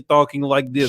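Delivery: put-on Russian accent; mock Russian accent. Co-host mocking how the film's characters switch, mock Russian accent. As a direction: imitate Russian-accented English. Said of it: "you know, the Russian boss".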